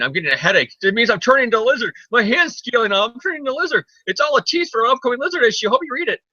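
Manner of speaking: hammed-up panic, rising into a squeal; mock freak-out. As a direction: ham up a scientist freaking out about turning into a lizard. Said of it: "he's all like".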